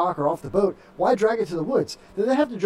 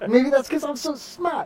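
slow, higher mock Massachusetts brag; Massachusetts accent; 5 semitones higher, slower than usual. Host bragging why nobody laughs, mock Massachusetts accent. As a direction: drop the R in a Massachusetts smart.

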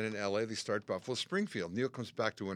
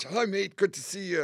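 light, higher, louder cheery hello in a hint of a famous rock guitarist; a lightly voiced rock star greeting an old friend; 7 semitones higher, 4 dB louder than usual. Guest imitating a famous rock guitarist greeting him, a light cheery hello. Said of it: "It's Jimmy Page".

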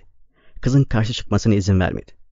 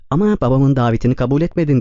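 sitemli; 3 semitones higher than usual. Acted. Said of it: "dedi Ruth sitemli bir sesle".

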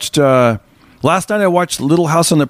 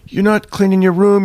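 higher-pitched mock scolding; mad parents, imitated; 7 semitones higher than usual. Parents to a working boy, mock mad. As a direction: lightly scold like a cross parent. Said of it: "the parents are mad".

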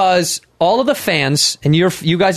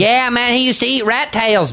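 higher, slow mocking impersonation; sneering imitation, pitched up; mock Theo voice; 5 semitones higher, slower than usual. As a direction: send him up, slow and high. Mocking Theo's put-down jokes.

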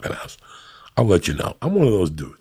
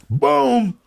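boom. Real, not acted. Punchline exclamation.

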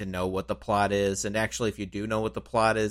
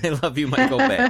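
much higher, louder, delighted; excited high echo; 8 semitones higher, 5 dB louder than usual. Retold or imitated. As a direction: shout it back with glee. Echoed tagline, laughing.

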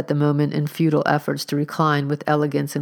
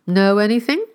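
demanding; 6 semitones higher, 4 dB louder than usual. A narrator's reading. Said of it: "demanded Augustus of the stranger".

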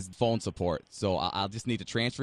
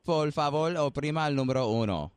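phone menu voice; 4 semitones higher, 7 dB louder than usual. Acted.

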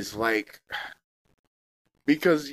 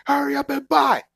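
hustler urging; 8 semitones higher, 4 dB louder than usual. Retold or imitated. Hustler urging buyer, louder.

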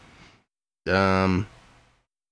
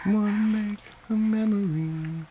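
mock seductive; 10 semitones higher, 5 dB quieter, slower than usual. Teasing the personal ad.

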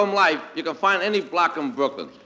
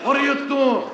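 higher, exasperated shout from the stands; bleacher heckle; 7 semitones higher than usual. Retold or imitated. Fan turns on losing pitcher, exasperated shout. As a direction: yell in disgust at the pitcher. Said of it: "He sounds something like".

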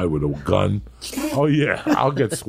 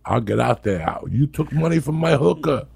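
megaphone yell; 6 semitones higher than usual. Pretend. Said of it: "With the megaphone".

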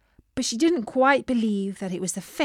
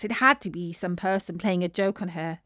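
ordinary delivery, nothing marked

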